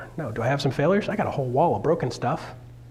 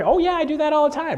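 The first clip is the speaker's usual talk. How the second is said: mock weirdo; 12 semitones higher than usual. Mocking the weird people.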